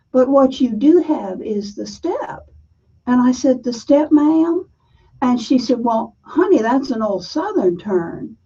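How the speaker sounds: Southern accent. Shown as a demonstration. A woman telling her childhood softball story, light Southern accent. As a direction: tell it the way a Southern girl would, lightly. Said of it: "I'm gonna tell you this story in a Southern accent".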